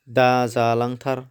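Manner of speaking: slow, separated "दा जालांथार", each part drawn out; syllable-by-syllable demonstration. Shown as a demonstration. Teacher showing learners the word's four parts, slow and segmented. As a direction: say "दा जालांथार" slowly, piece by piece.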